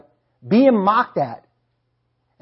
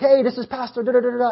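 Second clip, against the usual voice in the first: higher-pitched mock pastor on the phone; put-on caller voice; 5 semitones higher than usual. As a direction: imitate a chirpy caller introducing himself. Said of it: "I'm just pretending that he talks like that".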